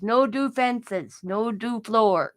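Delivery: slow, drawn-out mock rules; lightly voiced emphatic doctor; doctor impression. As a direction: imitate the doctor listing bans, each one falling. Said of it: "and that's how he said it".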